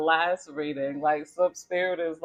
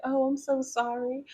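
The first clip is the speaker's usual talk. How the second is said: much higher, sugary fake sorry; passive aggressive apology; 10 semitones higher than usual. The hair-flipping girl fakes an apology, sugary and higher. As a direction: sound sorry but don't mean it. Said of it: "Yo, that's so passive aggressive".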